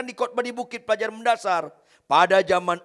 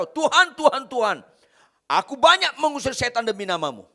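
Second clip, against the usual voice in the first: crying out; 3 semitones higher, 4 dB louder than usual. Retold or imitated. Preacher voicing those who cast out demons, loud cry. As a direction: call out to the Lord, boasting of deeds. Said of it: "banyak orang teriak".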